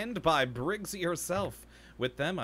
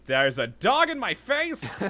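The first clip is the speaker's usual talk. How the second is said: loud, higher startled shout; surprised outburst; 9 semitones higher, 9 dB louder, slower than usual. Real, not acted. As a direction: blurt it out in surprise. Sudden dog on screen.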